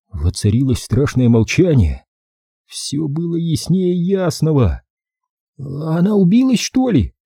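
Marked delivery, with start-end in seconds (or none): 5.6-7.1 frightened whisper, much higher. Narrator reads Billy after a fall on the stairs, frightened whisper. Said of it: "испуганно прошептал Билли".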